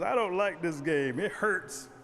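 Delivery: loud complaint from a kicked turtle; acted hurt objection; pained protest. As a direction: cry out against rough play.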